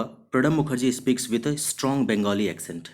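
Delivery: very slow, clear reading; teacher dictating example; slow example sentence. Shown as a demonstration. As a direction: read it out word by word. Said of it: "example sentence".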